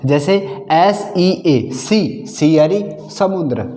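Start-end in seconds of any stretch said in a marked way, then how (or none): 1.7-2.3 सी with a short 'ee', higher pitched; short vowel. Shown as a demonstration. Teacher models ea as in sea, short vowel. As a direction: keep the 'ee' in सी brief. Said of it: "छोटा होगा".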